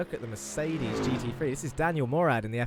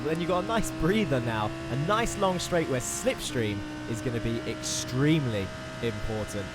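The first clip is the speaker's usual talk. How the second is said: brisk, lively onboard lap commentary; live play-by-play; 4 semitones higher, 3 dB louder than usual. Real, not acted. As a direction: talk viewers briskly round the circuit.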